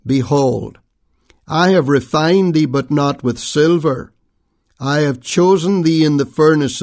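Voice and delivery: measured, solemn reading of the King James text; scripture reading. Acted. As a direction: read it like a lectern Bible reading, weighty and unhurried. Reads the scripture passage aloud.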